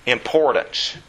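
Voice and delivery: normal talking voice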